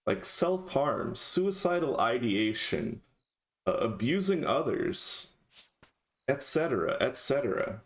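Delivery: deadpan sarcastic list. Pretend. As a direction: say it dry, as a joke. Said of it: "That was sarcasm".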